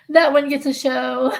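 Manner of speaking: can't hold back the laugh as you say it. Real, not acted. Amused by a viewer's comment, laughing while she talks.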